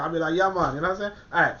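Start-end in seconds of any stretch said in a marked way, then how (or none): 0.3-0.7 brief mock Jamaican accent; light, joking Jamaican lilt. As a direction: put on a quick Jamaican accent. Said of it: "I'm gonna do my Jamaican accent".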